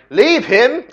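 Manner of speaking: sudden loud British rebuke, high; British accent. Pretend. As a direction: bark it at the cough in a British accent. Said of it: "I don't know why I'm British".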